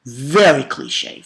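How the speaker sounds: slow, stretched "Very cliche"; drawn-out emphasis. Real, not acted. Reviewer repeating his verdict on the villain's goals, drawn out. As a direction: linger on "Very cliche".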